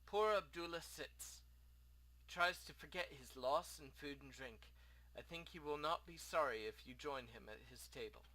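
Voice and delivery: lightly voiced foreign innkeeper; a hint of an exiled host; courteous innkeeper. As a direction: speak formally, with a rough try at an accent. Plays the innkeeper.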